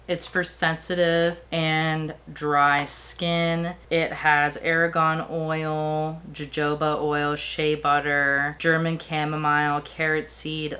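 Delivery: slow, deliberate word-by-word delivery. Real, not acted. Vlogger reining in rushed speech to list ingredients, slowly and deliberately. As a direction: take your time, spacing out each word. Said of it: "let's slow down".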